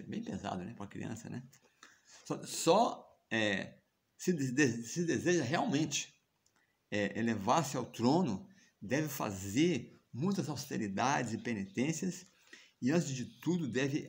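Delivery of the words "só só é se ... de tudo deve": stepmother speaking loudly. Retold or imitated. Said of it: "começou a falar alto".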